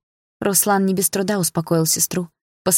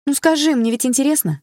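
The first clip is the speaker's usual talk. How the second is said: pestering; 8 semitones higher than usual. Acted. Sister pestering brother.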